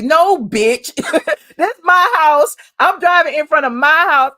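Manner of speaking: loud, mock outrage at the trespasser; hammed-up scolding from the homeowner's side; indignant telling-off. Homeowner scolding the trespasser on his porch, loud mock outrage.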